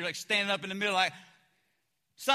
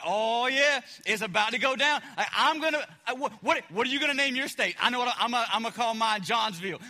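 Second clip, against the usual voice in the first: eager disciples. Acted. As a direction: play a cocky young disciple who can't wait. Disciples bragging about coming kingdom.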